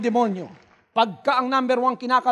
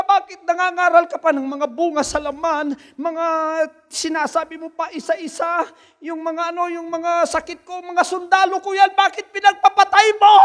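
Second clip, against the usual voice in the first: higher-pitched angry demon, rising to a shout; angry devil; 6 semitones higher than usual. Retold or imitated. Devil furious at the preacher for killing his soldiers, angry yell. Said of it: "galit na galit siya".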